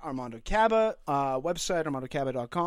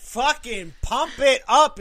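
hype man; 2 semitones higher, 6 dB louder, slower than usual. Acted. Hyping the podcast loudly.

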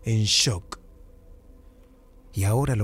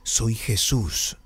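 voice from beyond the grave; 2 semitones lower, much slower than usual. Retold or imitated. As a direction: intone it like something speaking from the grave. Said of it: "con una voz casi de ultratumba".

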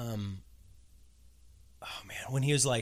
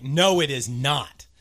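disbelief; 5 dB louder, slower than usual. Retold or imitated. Retelling own flat disbelief.

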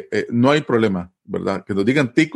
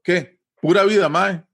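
higher, bright "¿Qué? Pura vida, mae"; cheery greeting; 6 semitones higher than usual. Shown as a demonstration. A tico greeting a friend, high cheerful hello. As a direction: greet an old friend with a lift. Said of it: "alguien que le va a preguntar".

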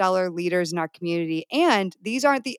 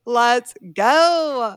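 higher, louder, stretched-out hype; rally the group with a long GO; rallying cheer; 4 semitones higher, 5 dB louder than usual. Real, not acted. Host launching the hot seat round, excited rallying cry.

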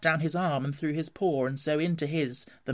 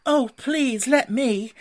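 high, loud, eager plea; eager begging; 10 semitones higher, 8 dB louder, much slower than usual. A narrator's reading. Mole begs Rat to let him pack, eagerly. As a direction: beg for it like a keen little animal.

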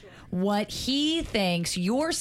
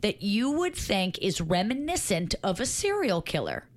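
dictating. Shown as a demonstration. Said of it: "read it back to me".

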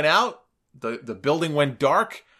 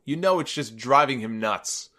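ordinary talk, nothing marked

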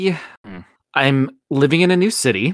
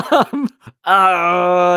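high squealing laugh, real; helpless laugh; 6 semitones higher, 5 dB louder than usual. Real, not acted. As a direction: crack up in frustration. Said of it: "pushing my buttons right now".

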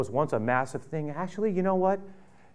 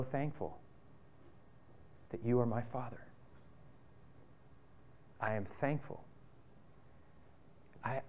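repentant son; 2 semitones lower, 6 dB quieter than usual. Pretend. Son confesses to his father.

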